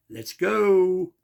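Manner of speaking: imitated street yell, get moving. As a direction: hurry the driver along, shouting. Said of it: "she's yelling".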